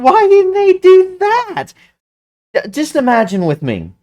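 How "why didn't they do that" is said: high, slow disbelieving plea; exasperated again. Real, not acted. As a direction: drag it out in frustration. Exasperated fan venting about show.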